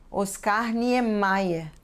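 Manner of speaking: Niemeyer drawn out, ending "MY-eh"; pronunciation demo. Shown as a demonstration. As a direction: say "Oscar Niemeyer" slowly, as a model. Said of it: "da mesma forma que lemos o nome".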